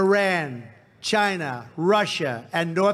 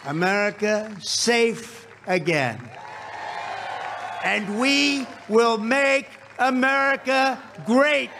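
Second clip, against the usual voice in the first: shouted rally climax; 3 semitones higher than usual. Real, not acted. Rally climax, crowd chant lines.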